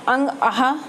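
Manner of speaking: ordinary talk, nothing marked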